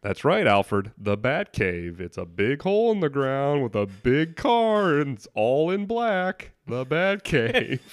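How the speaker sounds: smug Bruce Wayne. Retold or imitated. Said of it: "And he's like".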